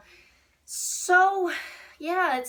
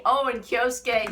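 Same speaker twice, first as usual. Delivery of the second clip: slow, laughing aside; giddy half-laugh; 5 dB louder than usual. Real, not acted. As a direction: giggle out the name. Laughing excitedly.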